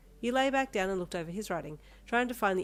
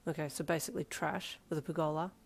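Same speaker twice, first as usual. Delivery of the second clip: deadpan; 2 semitones lower, 4 dB quieter than usual. Acted. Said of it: "Darby deadpanned".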